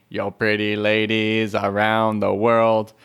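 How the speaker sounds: slow nasal singer voice; a singer's voice. Shown as a demonstration. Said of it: "So instead of saying".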